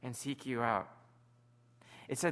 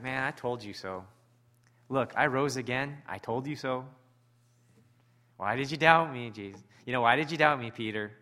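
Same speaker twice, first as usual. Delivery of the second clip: told-you-so Jesus; 5 dB louder than usual. Retold or imitated. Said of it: "Jesus looking at him saying".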